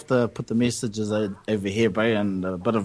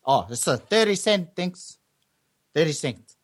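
slightly raised mock Samoan accent; 4 semitones higher than usual. Dairy owner quoting thirty cent, mock Samoan accent. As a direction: imitate a Samoan shopkeeper. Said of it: "my best, um, Samoan accent".

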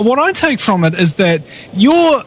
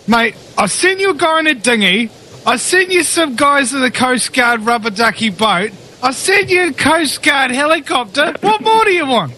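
God's punchline in a joke, pitch climbing higher to a squeaky peak; joking God voice; 7 semitones higher than usual. Retold or imitated. Host voicing God answering the drowned man in a joke, mock exasperated. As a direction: play God as a comic, slightly tipsy-sounding figure. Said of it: "Was God drunk when he?".

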